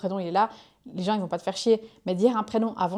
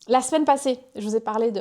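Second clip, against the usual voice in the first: loud, higher-pitched opening; trop fort; 3 semitones higher, 5 dB louder than usual. Real, not acted. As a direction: start a little too loud, pitched up. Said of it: "j'ai parlé un peu trop fort". (un peu trop fort)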